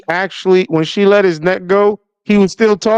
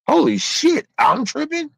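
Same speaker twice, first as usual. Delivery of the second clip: shocked squeal; 10 semitones higher than usual. Acted. Acted shocked reaction.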